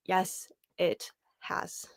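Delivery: slow, unvoiced hushed agreement; whisper. Real, not acted. Agreeing with chat about the hard week, slow whisper. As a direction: breathe it out like a secret aside.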